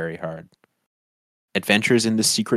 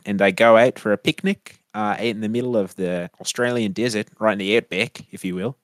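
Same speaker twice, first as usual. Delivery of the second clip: put-on New Zealand accent. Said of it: "the plot breakdown of Walkabout in that voice".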